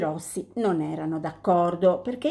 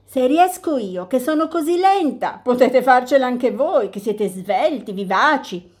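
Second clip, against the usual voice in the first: lightly voiced tortoise, higher and cheerful; 4 semitones higher, 4 dB louder than usual. Tortoise encourages robins.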